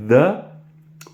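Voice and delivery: drawn-out "the" with tongue between the teeth; voiced English th in "the"; English th sound. Shown as a demonstration. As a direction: model "the" slowly as an English interdental. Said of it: "il faut apprendre à faire".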